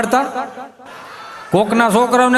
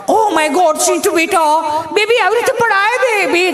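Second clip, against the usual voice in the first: high, gushing mummy voice; fussing mother; 10 semitones higher than usual. Acted. Mummy to her fallen baby, high-pitched fussing. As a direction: coo in alarm, pitched way up.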